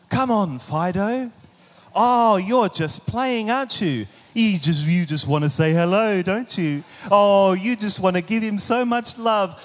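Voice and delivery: put-on dog owner sweet-talking the dog while a child screams; baby talk to a dog. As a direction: coax the dog like a toddler. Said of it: "ridiculous baby-like words and sentences".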